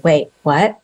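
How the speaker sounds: snapping out of a daze; sudden confused double take; startled wait what. Retold or imitated. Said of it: "Then I say".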